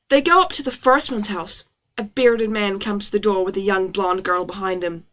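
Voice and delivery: story read in an exaggerated American accent. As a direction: narrate with put-on American vowels. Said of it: "it's exaggerated for effect".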